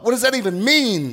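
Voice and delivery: a puzzled aside; baffled. Retold or imitated. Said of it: "and I thought".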